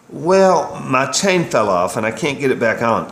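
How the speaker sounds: hint of a woman calling the shop; Renee on the phone. A narrator's reading. Keith's customer asks about her chain, lightly voiced.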